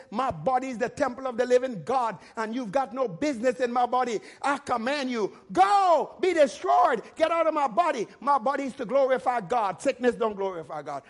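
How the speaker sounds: forceful rebuke rising to a shout, then settling; fighting preacher's command; bold, aggressive declaration. Shown as a demonstration. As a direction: order the sickness out of your body. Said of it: "spirit of boldness and aggression".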